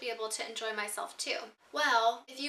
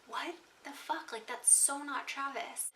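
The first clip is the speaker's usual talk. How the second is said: hushed disbelief; 3 semitones higher, 6 dB quieter, slower than usual. Retold or imitated. Hears the drunk fiance.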